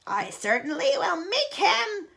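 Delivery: snapped. Acted. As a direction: snap back sharply. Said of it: "Aunt Spiker snapped".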